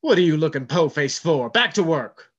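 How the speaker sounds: scowling bark. Acted. First mate orders John back to work, scowling. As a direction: snap at him to get back. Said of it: "First mate scowled".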